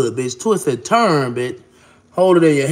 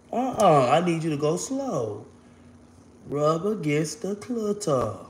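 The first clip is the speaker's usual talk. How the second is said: hushed instruction; 7 dB quieter, slower than usual. Acted. Intimate instruction to lover.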